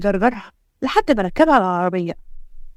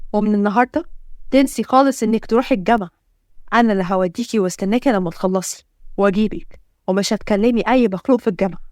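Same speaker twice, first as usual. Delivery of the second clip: controlling order; 2 semitones lower than usual. Acted. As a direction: lay down the rules to his wife. Husband lays down rules. (أمر بحزم)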